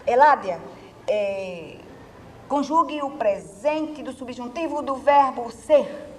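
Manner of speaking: stern mock-professor call, loud name then drawn-out order; imitated teacher. Professor calling on pupil to conjugate, imitated slow commanding voice. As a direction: slowly dictate the command, hitting the name hard. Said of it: "ele fazia assim".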